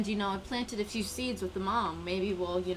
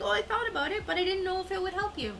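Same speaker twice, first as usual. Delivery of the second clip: imitating Mike; 10 semitones higher, faster than usual. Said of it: "Mike's like".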